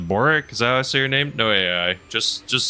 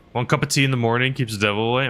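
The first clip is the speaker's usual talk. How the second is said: mock British accent; 3 semitones higher, much faster than usual.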